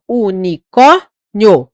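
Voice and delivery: "unicórnio" stretched slowly, loud, ending split into vowels; syllable out "unicórnio" slowly with the "io" apart. Shown as a demonstration. Teacher shows students the split "unicórnio". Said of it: "pode ser assim, ó".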